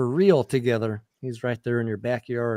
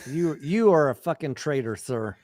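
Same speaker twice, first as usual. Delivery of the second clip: ordinary talk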